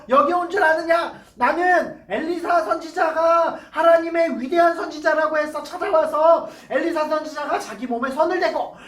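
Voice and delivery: a general who feels humiliated erupts in anger; furious general. Acted. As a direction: rant like an insulted commander. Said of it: "막 이러면서 화를 버럭버럭 냈어요".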